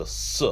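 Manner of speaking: "S" as a hissed "suh"; Sadi sound. Shown as a demonstration. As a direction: sound out "S", not the letter name. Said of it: "that letter is pronounced as".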